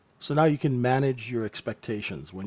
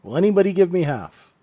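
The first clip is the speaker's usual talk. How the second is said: higher, louder auctioneer call for bids; 5 semitones higher, 5 dB louder than usual. Pretend. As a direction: ask the room for a bid like an auctioneer. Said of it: "now I sound like an auctioneer".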